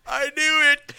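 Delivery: high, loud, furious cry; angry outburst. Pretend. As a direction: blow up like a cheated customer. Acting out an upset visitor.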